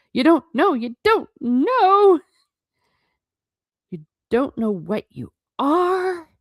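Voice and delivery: high, loud, stretched-out incredulity; astonished disbelief. A narrator's reading. Hagrid learning Harry doesn't know, astonished. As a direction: build each repeat, drawing out the key word.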